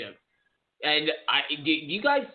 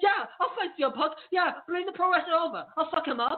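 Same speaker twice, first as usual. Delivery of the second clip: very high-pitched, mouthy, brash fighter voice; 13 semitones higher than usual. Retelling a fighter's trash talk about a new signing: imitating Michael Bisping. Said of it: "He's like".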